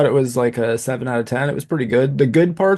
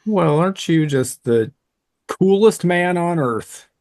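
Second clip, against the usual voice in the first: sarcastic teasing; 4 semitones higher than usual. Real, not acted. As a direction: rib a friend with fake awe. Teasing a boast about guessing.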